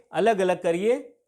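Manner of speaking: अलग अलग करिए said slowly, each word spaced; slow repeat. Shown as a demonstration. Teacher repeating the protest slogan slowly for the class. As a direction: spell the demand out slowly for students.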